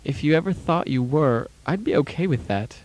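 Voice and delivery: high, gentle consoling mother. Retold or imitated. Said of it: "She'll say in a consoling voice".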